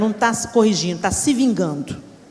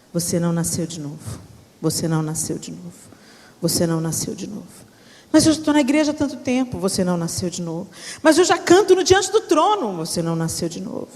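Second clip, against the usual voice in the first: mocking low voice; 6 semitones lower than usual. Daughter mocks her mother's repeated verdict, low droning. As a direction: drone the verdict like a broken record.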